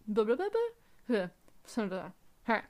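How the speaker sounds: tape rewinding. Pretend. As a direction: imitate a VHS rewinding. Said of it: "a good rewind noise".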